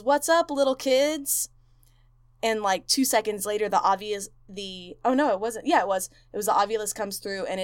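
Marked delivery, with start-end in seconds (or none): 0.0-1.5 higher, slower mock sing-song hello; friendly greeting. Zach calling out to the ghost children, mock friendly. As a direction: coax the ghost children sweetly.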